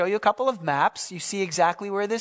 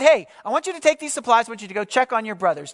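father giving orders; 3 semitones higher, faster than usual. Acted. Father sending David to check on brothers, brisk urging. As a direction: hurry him off with the errand.

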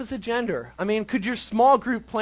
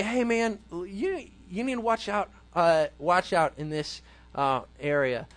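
lovingly; 3 semitones lower, 3 dB quieter than usual. Retold or imitated. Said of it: "will I lovingly say".

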